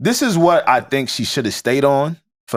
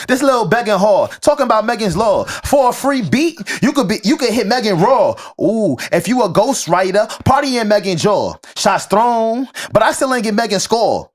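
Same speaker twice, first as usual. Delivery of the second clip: crackhead flow; 5 semitones higher than usual. Shown as a demonstration. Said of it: "I'ma read the verse".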